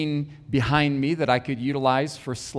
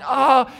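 higher-pitched groan of disapproval; disapproving groan; 8 semitones higher, 5 dB louder than usual. Retold or imitated. Woman in the audience objecting to the sermon, disapproving groan. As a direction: groan as if ill at what you hear. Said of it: "she would make those groaning sounds again".

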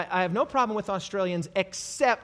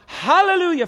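full-voiced preacher's cry; shouted hallelujah; 9 semitones higher, 9 dB louder than usual. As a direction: lift it to the rafters. Voicing heavenly crowd.

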